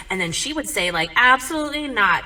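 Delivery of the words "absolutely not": indignant refusal. Retold or imitated. Mom flatly refuses dad.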